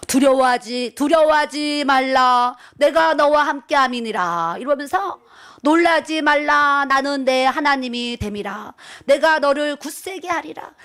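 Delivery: slow, loud, booming divine voice; imitating God's command from a loudspeaker. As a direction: proclaim it like a voice over a huge speaker. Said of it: "큰 음성으로".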